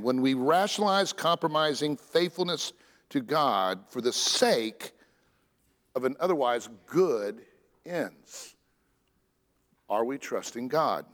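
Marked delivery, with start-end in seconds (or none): 0.0-8.5 slowed down, leaning on "otherwise"; slow, emphatic repeat. Shown as a demonstration. Preacher repeating a line to his congregation, slow and weighted. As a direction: say it once more, dwelling on "otherwise". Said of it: "I might say that one again".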